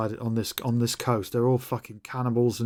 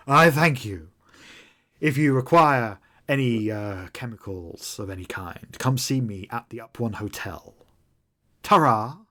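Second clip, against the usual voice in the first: bowing dealer's farewell. Acted. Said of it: "He then does a bow".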